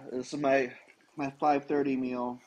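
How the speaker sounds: talking through a mouthful of food; eating while talking; mouth full. Real, not acted. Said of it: "so he is currently eating his meal".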